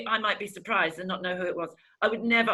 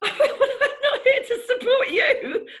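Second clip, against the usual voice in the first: high, loud, drawn-out wail; hammed-up sobbing through the words; mock crying; 6 dB louder, much slower than usual. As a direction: imitate someone bursting into slow, squeaky tears. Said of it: "another one burst out crying".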